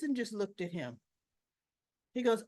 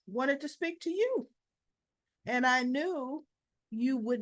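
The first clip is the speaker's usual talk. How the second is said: higher, lightly smug Brennan voice; retold Brennan; 3 semitones higher than usual. Brennan, smooth and high-pitched, reassuring Jason. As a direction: play Brennan smoothly excusing himself.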